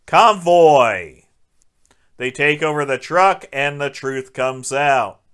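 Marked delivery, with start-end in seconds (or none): 0.1-1.2 loud, punchy exclamation; mock-heroic loud call; hammed-up call-out. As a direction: belt out the title. Calls out a movie reference.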